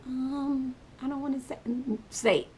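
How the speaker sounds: lightly voiced embarrassed son; small high voice of a caught kid; shy little boy. Son reluctant to answer.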